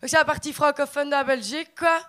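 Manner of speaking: put-on Belgian accent. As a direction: play up the Belgian accent for a joke. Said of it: "je parle pas du tout comme ça".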